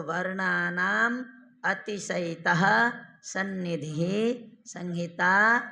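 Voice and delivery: slow, measured chanting of the rule; sutra recitation. Shown as a demonstration. Teacher reciting the sutra slowly to students. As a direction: intone the Sanskrit sutra for the class.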